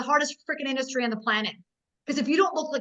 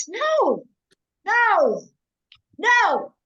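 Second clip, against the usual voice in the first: loud, high, ringing no no no; forceful calls, each no punched; emphatic no; 5 semitones higher, 6 dB louder, slower than usual. Real, not acted. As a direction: shut the idea down hard and loud. Rejecting the ideas, calling out.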